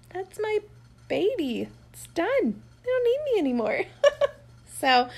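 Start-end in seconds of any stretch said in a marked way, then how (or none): 0.1-3.8 mock lament. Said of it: "I'm like".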